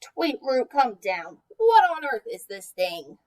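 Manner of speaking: a curious spud calling up to the bird; Pugtato asking. Acted. Pugtato calls up to Tweetroot in the shrub, lightly voiced puzzled spud. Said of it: "You can see that this is Pugtato talking".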